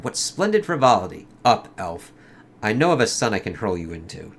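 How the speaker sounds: lightly acted comic dialogue, in character; comic characters voiced. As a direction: read it like a dramatic comic scene. Reads closing dialogue.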